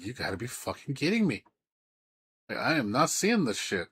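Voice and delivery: half-hearted outraged retelling. Retold or imitated. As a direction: push it up in mock outrage. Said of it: "I was like".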